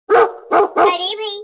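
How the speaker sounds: slow, loud exasperated groan of words; exasperated outburst. Acted. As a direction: drag it out loud, fed up. Annoyed reply to accusation.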